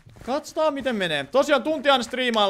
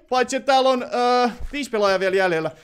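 usual speaking voice

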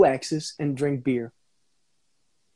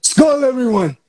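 put-on Skål in a higher, louder Scandinavian accent; Scandinavian accent toast; 9 semitones higher, 7 dB louder than usual. Actor toasting viewers in a Scandinavian accent. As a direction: raise the glass, Scandinavian style. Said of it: "speak like that with that accent".

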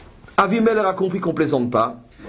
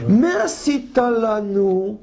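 English accent; much slower than usual. Shown as a demonstration. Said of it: "avec un petit accent anglais".

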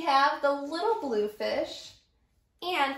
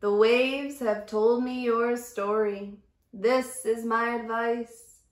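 wise octopus. Acted. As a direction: speak like an ancient sea sage. Octopus continues advice.

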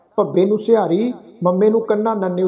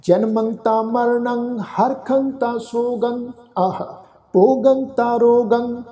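slow, drawn-out chanting of the whole verse; full slow recitation; 2 semitones higher, much slower than usual. Shown as a demonstration. Teacher leading the congregation through the whole shloka, slow chant. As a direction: intone the full shloka slowly and devoutly. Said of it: "ਇਸ ਦਾ ਆਪਾਂ ਸਮੁੱਚਾ ਪਾਠ ਕਰਦੇ ਹਾਂ ਜੀ".

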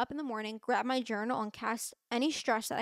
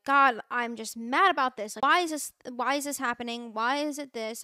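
frustrated prayer; 6 dB louder than usual. Retold or imitated. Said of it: "I'm so mad right now".

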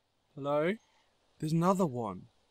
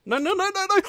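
very high, loud string of no's; frightened squeal; panicked shriek; 8 dB louder, faster than usual. Real, not acted. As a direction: scream it in real terror. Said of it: "I'm freaking out more than usual".

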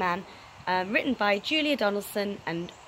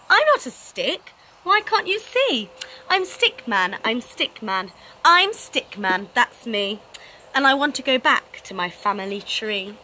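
protesting Stickman; 3 dB louder than usual. Acted. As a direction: insist you're not a stick, pitched up. Stickman protests being called stick.

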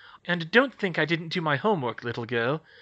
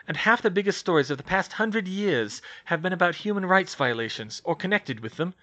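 louder, self-satisfied pitch; smug; 4 semitones higher, 5 dB louder than usual. Acted. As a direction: savour the plan. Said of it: "she said smugly".

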